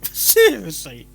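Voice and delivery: laughing exasperation. Real, not acted. Laughing at repeated flubs.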